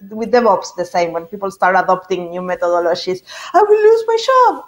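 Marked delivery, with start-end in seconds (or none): 3.5-4.6 high, loud panicked cry; fearful worker. Retold or imitated. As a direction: voice the worried employee, alarmed. Imagined fearful worker quote.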